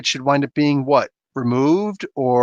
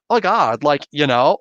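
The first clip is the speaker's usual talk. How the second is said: lightly mimicked California accent; a hint of exaggerated California speak. English teacher mocking the unwanted California accent, lightly put on. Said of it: "don't want that California".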